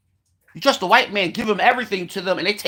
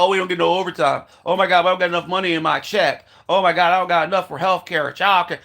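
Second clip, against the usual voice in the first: mock whining; 3 semitones lower than usual. Ranter mocks people griping about paychecks, mild mock whine. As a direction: parody a coworker moaning about money, rushed mock whine. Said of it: "we complain about".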